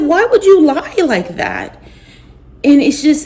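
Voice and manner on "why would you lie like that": high, slow, hurt plea; pained question. Retold or imitated. To her husband, slow and hurting. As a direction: beg him to explain, wounded. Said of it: "I said".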